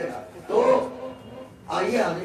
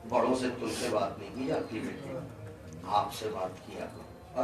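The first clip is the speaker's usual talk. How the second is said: put-on softer, lower, patient instruction to a child; gentle parental teaching; 6 semitones lower, 8 dB quieter than usual. Parent softly teaching a little child how to speak. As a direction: coax a toddler kindly into good manners.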